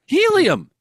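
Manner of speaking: squeaky high helium pitch. Pretend. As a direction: say it like you sucked a balloon. Helium joke.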